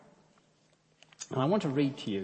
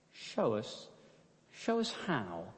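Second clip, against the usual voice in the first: matter-of-fact prayer; 2 semitones lower, 7 dB quieter, slower than usual. Acted. Betsy praying quietly, matter-of-fact. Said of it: "Betsy said matter-of-factly".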